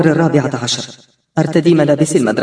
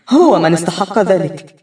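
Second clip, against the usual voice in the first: slow, insistent inner voice on هو; slow defiant self-justification; inner cry; 5 semitones higher than usual. Acted. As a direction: press هو hard, pleading with herself. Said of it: "يصرخ داخلي".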